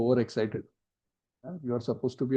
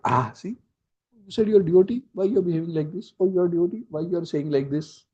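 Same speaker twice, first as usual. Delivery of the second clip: mocking taunt; 5 semitones higher than usual. Faultfinder taunting a devotee, raised sneering voice. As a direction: needle them like a gloating critic.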